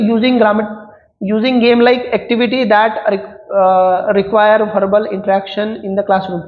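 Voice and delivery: slow, deliberate dictation reading; reading exam options. Acted. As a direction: read each word out slowly for students to follow. Reads answer option aloud, slowly.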